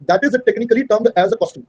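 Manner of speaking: very slow, word by word dictation; dictating a definition to students. Shown as a demonstration. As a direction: spell it out slowly for notes. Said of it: "dictating definition".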